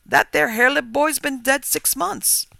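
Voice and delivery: slow, high, loud and emphatic; solemn revelation. A narrator's reading. Farmer revealing the boy is dead, solemn. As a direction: deliver grave news with weight. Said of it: "he rejoined solemnly".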